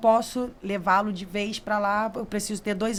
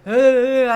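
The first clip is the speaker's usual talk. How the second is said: loud, drawn-out imitated sob; mock crying wail; 8 dB louder than usual. Guide retelling her cry when tourists hugged her, mock wail. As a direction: wail briefly as if bursting into tears. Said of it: "aí eu chorei".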